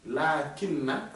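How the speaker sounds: lakinna drawn out slowly. Shown as a demonstration. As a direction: sound out lakinna carefully. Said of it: "c'est-à-dire, quant à moi". (lakinna prononcé lentement)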